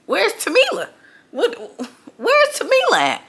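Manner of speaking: high panicky calling out; frantic, looking around for a lost friend; panicked search. Retold or imitated.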